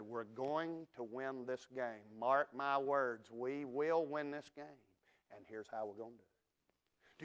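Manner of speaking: slow, steady and sure; calm resolve. Retold or imitated. Coaches calmly promising the team a win at halftime, slow and certain. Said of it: "they wasn't kicking over coolers".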